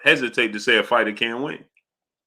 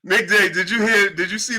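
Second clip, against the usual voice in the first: high voice broken by giggles; helpless laughter; 6 semitones higher than usual. Real, not acted. Host greeting Nick J, laughing uncontrollably. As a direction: greet someone while still cracking up. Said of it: "I can't stop laughing".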